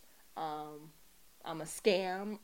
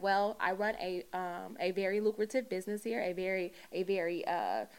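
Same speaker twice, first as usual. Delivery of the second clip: put-on white girl voice. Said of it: "I put on my white girl voice".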